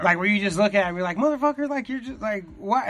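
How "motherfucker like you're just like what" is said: incredulous mock outburst. Comic watching a Canadian act, incredulous. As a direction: play stunned disbelief at a weird act.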